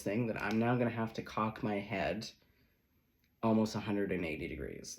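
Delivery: indignant, incredulous rant; exasperated, over-the-top sass; sassy disbelief. Pretend. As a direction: play it like a card cocking its head in outrage. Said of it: "That's that sassy where it's just like".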